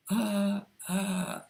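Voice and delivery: high, scratchy throat sound demo; throaty falsetto uh. Shown as a demonstration. Voice trainee demonstrating a scratchy throat sound, high. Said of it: "so that it sounds like".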